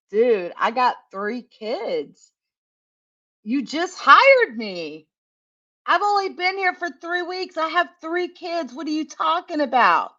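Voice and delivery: put-on pleading she has three kids, half outraged; incredulous protest. Protesting to her boss Ray about being fired, incredulous and rising.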